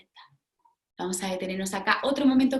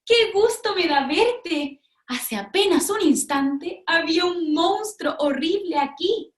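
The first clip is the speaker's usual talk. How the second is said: higher and slow, gushing; relieved delight; 6 semitones higher than usual. Acted. Cerda tells the pig about the monster, relieved and gushing. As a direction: gush with relief.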